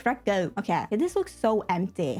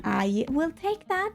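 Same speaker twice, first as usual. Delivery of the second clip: high, slow, savoring each word; playful acceptance; 6 semitones higher, slower than usual. Pretend. Builder grabbing the ceiling fan, playfully drawn out. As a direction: stretch it out like a prize.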